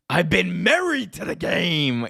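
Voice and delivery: high, slow, declaimed wrestler line; hammed-up promo delivery; mimicked wrestling promo. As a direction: imitate a wrestler milking his catchphrase.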